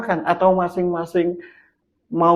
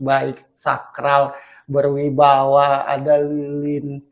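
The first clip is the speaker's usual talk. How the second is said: mock solemn listing; slower than usual. Mocking list of romantic clichés.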